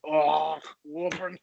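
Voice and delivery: mock slow-witted parroting; drawn-out confused repetition of the last word; dim echo. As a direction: play it dopey, groaning the reply. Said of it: "he just says the last thing that you said".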